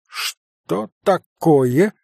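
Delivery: high, slow indignant question; startled indignation. A narrator's reading. Doctor reacting to Kolya, startled indignant. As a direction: bristle at the insult.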